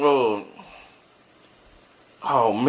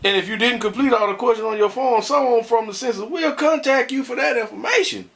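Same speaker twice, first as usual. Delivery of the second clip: lightly mocking official read; a hint of an official voice; reading aloud; 8 semitones higher than usual. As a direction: read the census notice in a mock official tone. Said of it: "Let me see".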